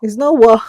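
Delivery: NOT hit high and loud; wife correcting her husband's Yoruba H; firm correction. Real, not acted. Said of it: "Don't bring the Yoruba H factor".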